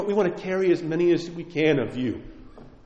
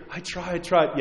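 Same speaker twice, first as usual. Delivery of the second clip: whiny excuse; 3 semitones higher, 3 dB quieter than usual. Retold or imitated. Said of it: "if you say you're a teacher".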